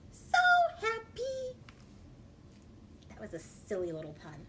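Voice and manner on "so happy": sing-song pun. Acted. Pun on so happy.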